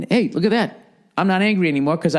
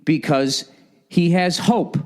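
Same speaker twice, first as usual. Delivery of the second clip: mock narrator voice; 4 semitones higher, slower than usual. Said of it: "And it says".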